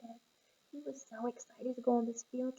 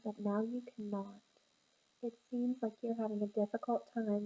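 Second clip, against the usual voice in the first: calm parent. Acted. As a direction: coax him down gently, like a calm parent. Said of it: "this is you coming in calm".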